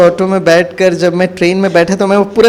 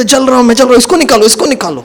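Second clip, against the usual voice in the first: higher, frantic, imitating a man in agony; mock burning cries; 5 semitones higher, faster than usual. Driver suddenly crying that he's burning, imitated panicked cries. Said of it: "वो इतना जोर से वो चीखने लगा".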